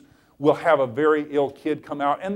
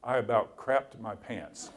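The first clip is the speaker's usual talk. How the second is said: laughing while reading; 4 semitones lower, 6 dB quieter, slower than usual. Real, not acted.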